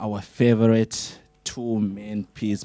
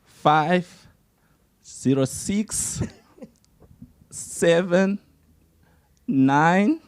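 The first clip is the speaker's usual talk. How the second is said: slow, drawn-out number; slow motion; 4 semitones higher, slower than usual. Real, not acted. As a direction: spell out each digit slowly. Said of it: "thank you so much for saving the slow motion phone number".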